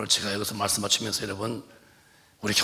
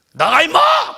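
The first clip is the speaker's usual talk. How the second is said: high, loud rough yell; angry cursing shout; 16 dB louder, slower than usual. Retold or imitated. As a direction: bark the insult at the spirit. Repeated cursing command. (욕하며 버럭 지르는 고함)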